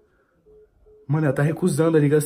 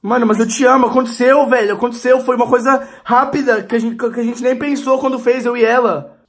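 higher, louder pleading, words tumbling out; 5 semitones higher, 4 dB louder than usual. Acted. Boyfriend pleading with girlfriend that the fling meant nothing, loud high pleading. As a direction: insist desperately it meant nothing.

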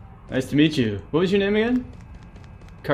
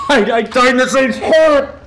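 laughing disbelief; 11 semitones higher, 7 dB louder than usual. Real, not acted. Gamer dying in the same spot twice, high laughing outcry.

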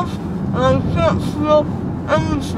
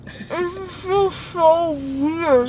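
woozy from anesthesia; slower than usual. Real, not acted. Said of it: "She said she feels so drunk".

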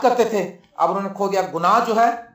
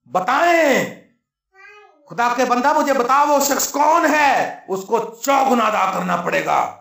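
kingly majesty; 2 semitones higher than usual. Acted. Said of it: "وہ اسی جاہو جلال سے بولا".

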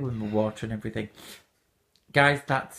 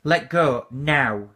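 slow, heavy command; 5 dB louder, much slower than usual. Real, not acted. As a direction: drag each word out as an order.

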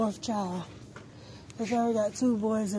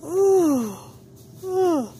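excited ooh; 7 semitones higher, 7 dB louder than usual. Real, not acted. Excited about baby news.

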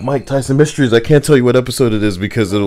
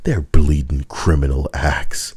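low mock-Cockney legal expert; lightly put-on Cockney, low and grave; Cockney accent; 6 semitones lower than usual. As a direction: read it as a solemn Cockney. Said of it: "Why is this in the Cockney accent too?".

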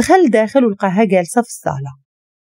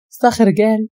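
plain reading voice

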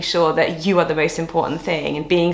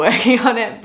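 laughing at herself; 6 semitones higher, 4 dB louder than usual. Real, not acted. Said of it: "it's still not great".

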